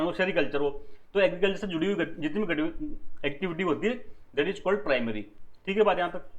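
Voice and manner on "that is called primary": very slow, stretched out; slow dictation. Shown as a demonstration. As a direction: dictate the term to the class. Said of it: "teacher dictates definition slowly". (धीरे-धीरे परिभाषा लिखवाना)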